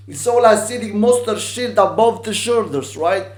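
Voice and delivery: loud, high, wound-up delivery; manic shouted rant. Acted. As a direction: shout it at full tilt. Manic rant after whoop.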